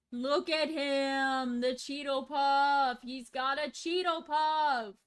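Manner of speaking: drawn-out gushing squeal of delight. Real, not acted. Streamer showing chat a Cheeto Puff rat, gushing. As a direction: fawn over it, stretching the words.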